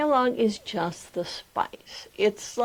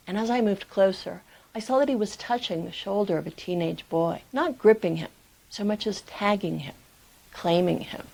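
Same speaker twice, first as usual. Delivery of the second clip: story narration; 2 semitones lower than usual. A narrator's reading. Reads memoir excerpt aloud.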